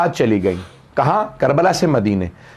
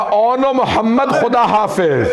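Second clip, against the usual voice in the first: anguished farewell; 4 semitones higher than usual. Acted. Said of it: "तड़प के कहा".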